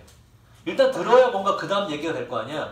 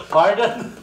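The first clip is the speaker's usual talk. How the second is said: louder, laughing pardon imitating Koreans abroad; mocking pardon; 3 semitones higher, 7 dB louder than usual. Teacher mocks how Koreans always say pardon. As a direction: tease the habit with a laugh. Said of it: "이거 정말 잘해".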